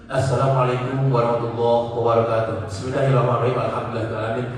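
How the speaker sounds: measured, devout opening greeting; a hint of a mosque event emcee; religious gathering MC. Shown as a demonstration. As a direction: open like a pious Koran-study host. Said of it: "M C pengajian".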